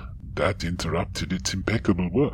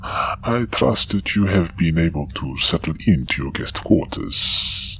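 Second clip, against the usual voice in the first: put-on Germanic-accented alien counselor; Austrian-sounding accent; 2 semitones higher, 5 dB louder than usual. Counselor visiting the ensign in guest quarters, Austrian-sounding accent. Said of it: "that's quite the accent you have there".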